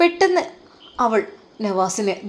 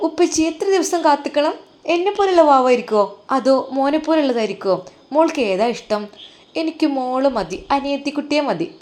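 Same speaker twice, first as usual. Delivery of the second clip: put-on little girl; 5 semitones higher than usual. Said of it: "Kunjumol പറയാണ്".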